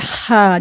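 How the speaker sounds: हा from the throat, like a panting breath; breathy Arabic ha. Shown as a demonstration. Quran teacher shows learners a simple articulation, breathy throat हा. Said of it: "इसकी simple अदायगी है".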